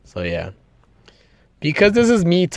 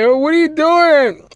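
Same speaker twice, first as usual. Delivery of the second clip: put-on startled kid; 5 dB louder than usual. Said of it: "Imagine, like".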